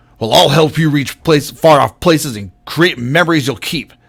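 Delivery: loud, plainly angry delivery. Demonstrating a line read to contrast with a pointed version, just angry. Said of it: "That's more just angry".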